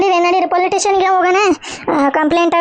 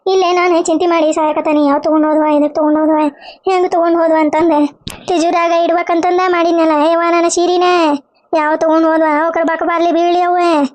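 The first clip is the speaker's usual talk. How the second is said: tearful cursing lament. Acted. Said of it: "ಕಣ್ಣೀರೇ ನೋಡಲ್ಲ".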